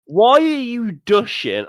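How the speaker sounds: put-on high, slow little-girl voice; a small child's question; toddler daughter voice. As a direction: mimic a two-year-old asking. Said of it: "And then she's like".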